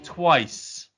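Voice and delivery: very slow, high and loud; spaced out word by word in a put-on voice; quote impression. Podcast host performing a favourite quote, slow put-on voice.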